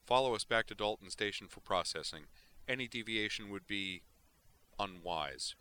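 lightly voiced stern patrol pilot; cool official threat; comm officer. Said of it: "said a voice on the comm".

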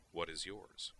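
calm kindness. Acted. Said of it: "with a sort of infinitely calm kindness".

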